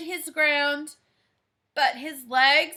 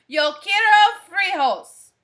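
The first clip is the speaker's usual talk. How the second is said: somber voice; 3 semitones higher, 7 dB louder than usual. Acted. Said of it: "in his most somber voice".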